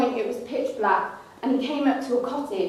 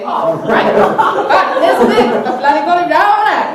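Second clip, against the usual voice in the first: loud, higher and laughing; 5 semitones higher, 10 dB louder than usual. Real, not acted. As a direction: crack up while talking. Laughing, excited aside.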